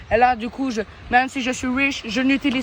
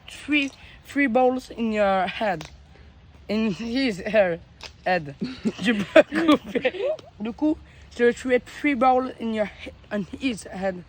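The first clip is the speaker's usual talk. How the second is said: mock English accent; slower than usual. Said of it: "je reprends mon vrai, mon second accent".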